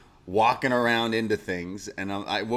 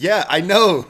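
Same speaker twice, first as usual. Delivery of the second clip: sarcastic; 8 semitones higher, 11 dB louder than usual. Retold or imitated. Sarcastic reply next day.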